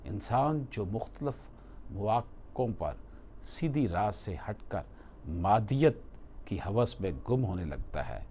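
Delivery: normal talking voice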